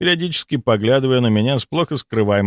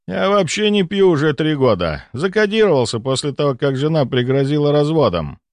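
lightly voiced patient, higher pitched; 6 semitones higher than usual. Patient assures the doctor he gave up drinking, lightly voiced. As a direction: raise the pitch a little for an earnest patient.

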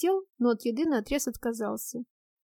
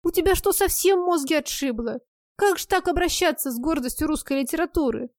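indignant scolding; 4 semitones higher, 4 dB louder than usual. Acted. Friend scolds husband through door.

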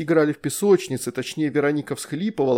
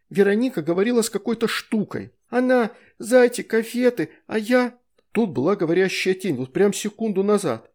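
put-on higher, tumbling childish words; excited child; 7 semitones higher than usual. A narrator's reading. Astrid reporting the shadow to parents, high and flustered. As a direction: blurt it out like a frightened child.

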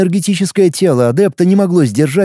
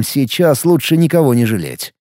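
plain reading voice

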